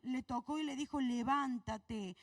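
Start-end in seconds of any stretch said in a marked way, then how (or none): 1.0-2.2 drawn-out command. Acted. Angel wakes Elijah, drawn out.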